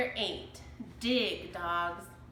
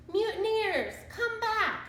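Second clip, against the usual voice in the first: much higher, louder desperate yell; shouted; 12 semitones higher, 4 dB louder than usual. A narrator's reading. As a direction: yell after the deserting crew. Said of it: "shouted Captain Bones".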